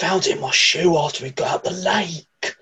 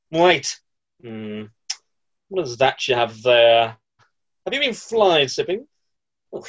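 grumpy boathouse manager; 4 semitones lower than usual. Acted.

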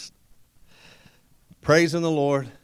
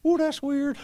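skeptical ooh; 13 semitones higher than usual. Retold or imitated. Preacher mocks his skeptical thought.

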